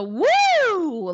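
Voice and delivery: high swooping "woo"; crazy-girl woo. Shown as a demonstration. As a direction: let out a wild, high whoop. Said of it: "like a crazy girl".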